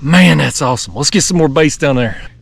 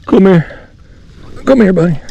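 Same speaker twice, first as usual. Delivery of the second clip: raised, louder urging; coaxing call; 4 semitones higher, 3 dB louder than usual. Real, not acted. Angler to flathead on the line, eager coaxing call. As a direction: call the fish over eagerly. Coaxing second fish into net.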